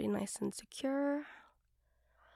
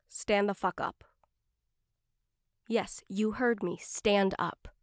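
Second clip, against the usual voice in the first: commanding. Acted. Commanding the listener.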